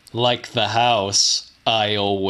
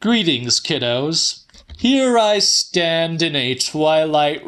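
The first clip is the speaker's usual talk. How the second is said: sinister host; 2 semitones higher than usual. Acted. Time-bending killer greets his audience, mock-genial and menacing. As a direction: relish each word like a horror host greeting kiddos. Villain addresses listeners directly.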